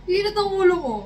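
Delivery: high teasing mock voice; mocking customer. Laughing customer mocking the cashier, high teasing voice. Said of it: "natawa-tawa pa siya".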